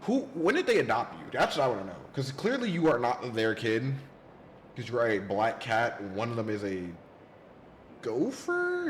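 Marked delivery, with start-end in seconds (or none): 0.0-6.0 teasing. Pretend. Teasing the character loudly. 8.0-8.9 squeak. Pretend. Comic high squeak on gopher.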